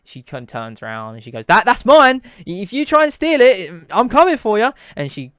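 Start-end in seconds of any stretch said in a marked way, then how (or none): 1.5-4.7 high, loud, fierce warning; loud threat. Acted. Cook warning would-be thieves off her coin, loud and threatening. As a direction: shout a possessive warning, voice pitched right up.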